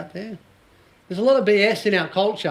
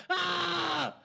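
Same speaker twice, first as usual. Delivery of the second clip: high mock shriek, much softer; mock scream; 11 semitones higher, 10 dB quieter than usual. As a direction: imitate a terrified teen wail. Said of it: "I'm yelling out louder".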